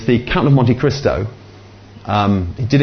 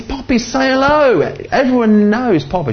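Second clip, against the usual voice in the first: very high-pitched mock exasperation; high, animated retold prompting; acted parental prompting; 13 semitones higher than usual. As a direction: coax a child in a high, put-on voice. Acts himself prompting granddaughter to greet people.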